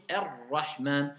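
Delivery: "Ar-Rahman" slow, light roll on the r; slow recitation. Shown as a demonstration. Teacher modelling Ar-Rahman slowly for pupils. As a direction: draw out "Ar-Rahman" gently. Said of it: "Vous voyez comment je dis?".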